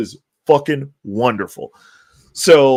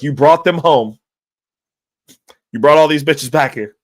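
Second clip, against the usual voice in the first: Vietnamese cadence; 4 dB louder than usual. Retold or imitated. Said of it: "'cause he's Vietnamese".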